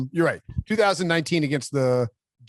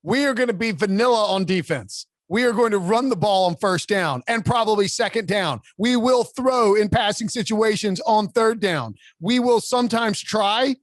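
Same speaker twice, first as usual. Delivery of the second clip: mock honest coach; 5 semitones higher than usual. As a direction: play a coach announcing a bland plan to reporters. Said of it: "get up there and be like".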